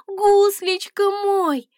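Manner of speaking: slow tender whisper; whispered endearment. A narrator's reading. Princess whispering to the dragon she hugs. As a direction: whisper to him as you hold him.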